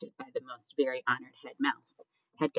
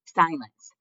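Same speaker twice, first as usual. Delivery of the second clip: loud, raised command; roaring; 5 semitones higher, 7 dB louder than usual. A narrator's reading. Head mouse quieting the crowd, roaring. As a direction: roar for order. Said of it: "roared the most very honored head mouse".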